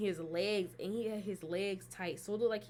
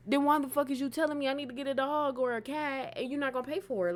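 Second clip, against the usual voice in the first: indignant; 5 semitones higher, 3 dB louder than usual. Retold or imitated. Retells indignant quarrel over payment.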